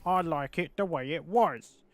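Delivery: lightly voiced whiny fan, slow; mock the purists with a nasal-free whine. Imitating purist fans who want no new content, mild whine. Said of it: "They're just like".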